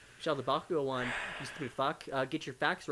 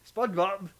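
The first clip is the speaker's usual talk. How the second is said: higher, loud yell of the name; cartoon yell; 7 semitones higher, 9 dB louder than usual. Asked for game Mister Krabs, higher loud yell.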